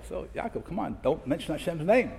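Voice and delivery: whispered urgent warning to a friend; hushed warning. Retold or imitated. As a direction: hush it like a quick warning. Imagined warning to Yaakov.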